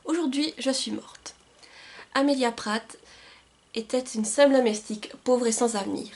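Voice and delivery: measured storytelling read-aloud, phrase by phrase; back-cover reading. Acted. Book vlogger reading a back cover to viewers, measured read-aloud.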